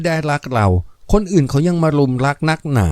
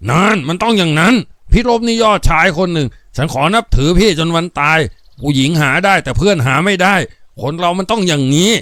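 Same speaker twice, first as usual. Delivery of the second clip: raised eager cheering; excited approval; 4 semitones higher than usual. Acted. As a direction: jump up and hail him. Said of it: "แตงถลันลุกขึ้นยืนทันที". (แตงลุกขึ้นชื่นชมอย่างตื่นเต้น)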